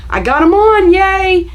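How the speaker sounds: high, loud little victory cheer; excited cheer. Real, not acted. Sewing vlogger cheering her own success, high and loud. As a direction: celebrate getting them on. Cheers after finishing the step.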